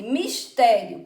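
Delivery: "mistério" drawn out with a loud "té"; stress on TÉ. Shown as a demonstration. Teacher asking pupils for the tonic syllable, stressed TÉ. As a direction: lean hard and slowly on the "té" of "mistério". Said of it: "qual é a sílaba tônica?".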